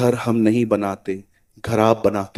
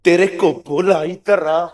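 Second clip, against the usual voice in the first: second impatient call; 4 semitones higher, slower than usual. Retold or imitated. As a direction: call Sonu again, annoyed now. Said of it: "फिर दूसरी बार". (दोबारा झुंझलाकर सोनू को पुकारना)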